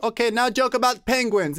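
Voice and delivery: demanding woman. Retold or imitated.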